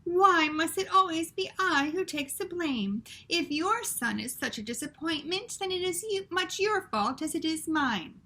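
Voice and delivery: put-on high, loud French-accented protest; indignant French mother. Antoinette protesting the blame in a French accent, high. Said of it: "said Antoinette".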